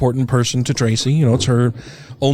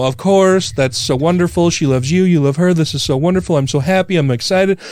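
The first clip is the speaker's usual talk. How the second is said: higher, eager, rising to a mild mock cry of joy; gushing excited text; 6 semitones higher than usual. Groom reads daughter's tearful text, imitating excited gushing. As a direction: read her text like she's overjoyed at work. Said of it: "I'm crying".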